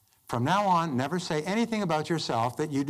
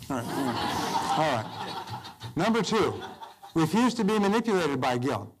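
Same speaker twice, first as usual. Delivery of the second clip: laughing through the words; chuckling while reading the point. Real, not acted. Speaker laughs between points.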